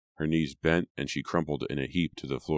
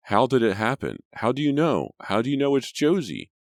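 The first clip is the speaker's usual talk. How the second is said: higher, louder, desperate questions; 9 semitones higher, 6 dB louder than usual. A narrator's reading. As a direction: pour them out in panic. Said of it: "in a desperate voice".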